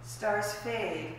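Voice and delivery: measured poetry recital with weighted phrases; poetry reading. Acted. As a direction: read it as verse, pausing between images. Reads own poem aloud.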